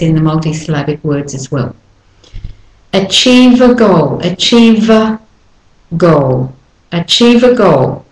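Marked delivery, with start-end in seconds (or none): 2.9-8.0 "Achieve a goal" run together, weak a; linked as one word. Shown as a demonstration. Teacher modelling connected speech for learners. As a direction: glide it as one long word. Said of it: "You run it all together".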